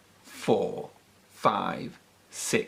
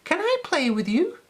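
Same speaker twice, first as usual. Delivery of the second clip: tag. A narrator's reading. Peppy asks the big dogs.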